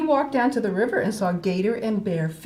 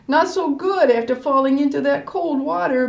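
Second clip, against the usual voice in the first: stuffy, sniffly sick voice; sniffling; 5 semitones higher, 4 dB louder than usual. Acted. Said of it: "Bear sniffled".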